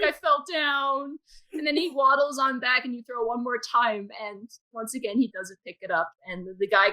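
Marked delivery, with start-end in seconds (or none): 0.0-1.2 slow, slightly raised voice for a clumsy pet dragon; hurt creature. Acted. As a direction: lightly voice a dopey fallen beast, drawn out. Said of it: "He goes".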